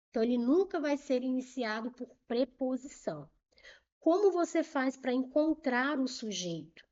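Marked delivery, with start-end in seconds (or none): 0.1-3.3 whispered emphasis. Shown as a demonstration. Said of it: "essa informação é muito importante".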